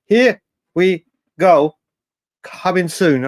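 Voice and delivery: slow, lightly put-on Italian accent, stretching here; mock the journalist's Italian accent, drawn out; Romano's Italian accent. Streamer imitating the transfer journalist's post, in a light Italian accent. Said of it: "the A sounded like part of his Italian accent".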